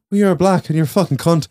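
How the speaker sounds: quick, laughing movie reply; laughing quote. Retold or imitated. To friends, quoting the reply while laughing. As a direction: rattle it off through laughter.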